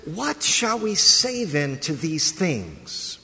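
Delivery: slow, deliberate quoting of Paul. Retold or imitated. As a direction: draw the question out slowly. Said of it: "He says".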